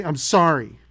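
quick, loud throwaway sorry; mock grudging child's apology; insincere apology. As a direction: toss off a kid's apology you don't mean. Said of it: "Say it like you mean it".

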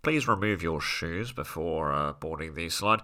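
calm crash instructions; polite cabin crew announcement; flight attendant. Retold or imitated. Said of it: "The plane's crash is like".

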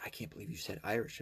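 soft, hushed mock disbelief; mock offended. Imagined objector to an Irishman, hushed mock offence. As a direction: play someone scandalized, barely voiced.

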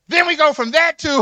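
loud, driving sermon voice; preaching at full force. Acted. Pastor teasing the men in church about cheating, loud preaching.

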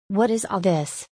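a gentle, concerned question in a changed voice. A narrator's reading. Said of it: "in a gentle voice".

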